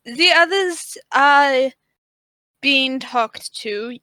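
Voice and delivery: put-on slow priestess with a vague German accent; lightly put-on German accent. Priestess explaining to the thief, slow fake German accent. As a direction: speak slowly in a wobbly German accent. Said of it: "And she says".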